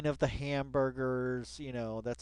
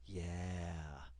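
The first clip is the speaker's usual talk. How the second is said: fake echo; 7 semitones lower, 9 dB quieter than usual. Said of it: "You gotta just sit here yourself and say".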